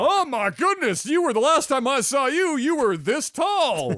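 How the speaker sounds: high, loud, gushing aunt voice; cheek pinching aunt. Retold or imitated. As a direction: coo it like a relative who hasn't seen you. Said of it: "They go".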